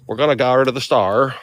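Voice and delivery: trying out an Aussie accent, leaning on the R; amateur Australian accent practice; attempted Australian accent. Shown as a demonstration. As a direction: have a clumsy go at Australian. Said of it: "How does one do an Australian accent".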